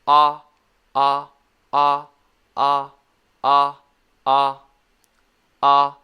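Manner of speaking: "ah" loud and open, tongue a little down; steady, separate, simple "ah" repeats; short O sound. Shown as a demonstration. Teacher drilling short O for learners, loud open "ah". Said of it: "It's a very simple sound".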